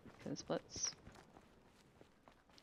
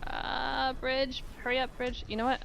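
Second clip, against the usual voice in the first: high, loud impatient urging; hurrying; 9 semitones higher, 5 dB louder than usual. Real, not acted. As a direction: hurry it along, keyed up. Impatient waiting for game bridge.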